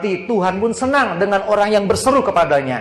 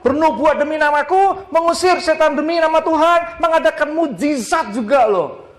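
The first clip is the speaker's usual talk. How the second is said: preaching cry; 10 semitones higher than usual. Acted. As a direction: proclaim it like crowds crying out. Preacher voicing crowd crying out.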